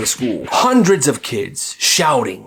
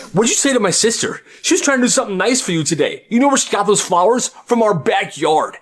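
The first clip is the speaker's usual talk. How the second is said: higher, fast, heated telling-off; yelling brother; 7 semitones higher than usual. Acted. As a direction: storm in and defend your little sister. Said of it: "he yells at that teacher".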